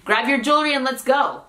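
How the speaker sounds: "jewelry" squeezed into two syllables, JOOL-ree; casual quick pronunciation. Shown as a demonstration. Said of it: "te lo dicen más rápido".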